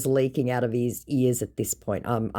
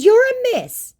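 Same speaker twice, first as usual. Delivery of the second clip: scornful jab; 8 dB louder, slower than usual. Retold or imitated. Her scornful retort.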